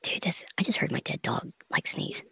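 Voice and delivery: spooked hushed whisper; hushed, creeped-out whisper; weirded out. Real, not acted. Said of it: "my spider senses are going crazy right now".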